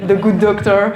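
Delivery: said through a laugh; laughing at her own confession. Real, not acted. Guest admits binge-watching The Good Doctor, laughing.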